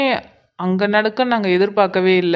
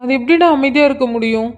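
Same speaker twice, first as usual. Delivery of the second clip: higher, urgent anxious questions; panicked son; 4 semitones higher than usual. Acted. Son questions his father about his mother, higher and panicked. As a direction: beg to hear she's alright. Son can't stay calm.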